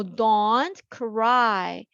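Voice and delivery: very slow, drawn-out don't cry; slow model reading. Shown as a demonstration. Teacher modelling a comforting phrase, slow. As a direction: stretch it out for the students. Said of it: "울지 마".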